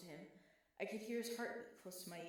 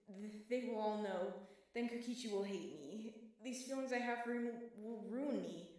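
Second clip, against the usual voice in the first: panicked; 3 semitones higher, 5 dB louder than usual. Acted. Panic attack in class.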